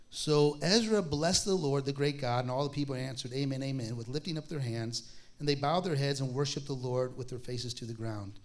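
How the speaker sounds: solemn Bible reading; scripture reading. Acted. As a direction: read the verses out to the congregation.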